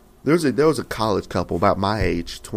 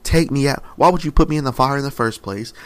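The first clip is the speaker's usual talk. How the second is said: desperate pleading; 3 semitones higher, 4 dB louder than usual. Retold or imitated.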